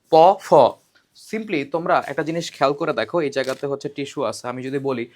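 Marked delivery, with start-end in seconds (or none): 0.1-0.5 প said short, ফ with a strong loud puff of breath; aspiration contrast. Shown as a demonstration. Teacher demonstrating প and ফ to students, ফ heavily breathy. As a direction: push extra air out on ফ, not on প. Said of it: "দেখো এই জায়গাতে তোমরা বলো প, ফ".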